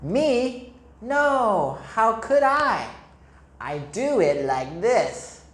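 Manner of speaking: high, bouncy innocent denial; a dreamy goat claiming innocence; goat's reply. Acted. Goat answering the mole, lightly voiced and playful. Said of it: "she replied".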